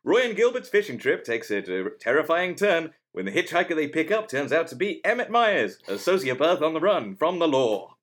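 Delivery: vintage radio announcer read; old-timey radio voice. Shown as a demonstration. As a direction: announce it like a fifties radio host. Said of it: "I do, like, an old-timey radio voice".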